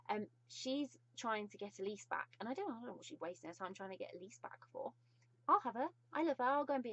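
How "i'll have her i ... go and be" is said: higher and louder, gushing with glee; giddy fangirl outburst; gushing excitement. Real, not acted. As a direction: blurt it out like a smitten fan. Gushing over favourite villain.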